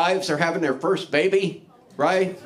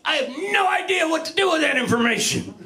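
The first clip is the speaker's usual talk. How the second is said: mock enthusiasm; 7 semitones higher than usual. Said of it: "And I'm going".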